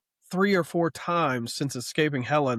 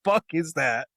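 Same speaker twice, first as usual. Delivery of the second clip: higher, louder disbelieving tirade; incredulous rant; 5 semitones higher, 4 dB louder than usual. Real, not acted. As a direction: rant at the comic in total disbelief. Ranting about the sassy villain.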